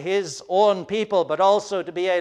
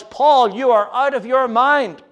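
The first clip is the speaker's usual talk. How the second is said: raised voice reading the governor's outburst; governor's loud outburst at Paul, read with a raised voice; 2 semitones higher, 4 dB louder than usual. Acted. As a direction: call Paul mad, sharp and raised. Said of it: "Festus said in a loud voice".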